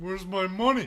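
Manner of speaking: cartoonish, high and loud. Interrupting a couple to demand money, in a Patrick Star voice. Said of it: "I went a little bit Patrick Star".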